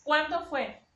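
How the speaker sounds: CUÁNDO punched high and loud, then falling; pointed question led by a stressed "cuándo"; question intonation. Shown as a demonstration. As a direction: ask it, hitting "cuándo" hard. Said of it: "si nosotros ponemos la pregunta".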